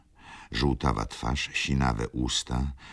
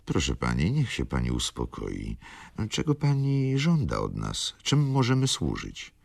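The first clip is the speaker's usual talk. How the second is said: mildly soothing appeal to the lady; gentle; 2 semitones higher than usual. Acted. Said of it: "odezwałem się z całą łagodnością".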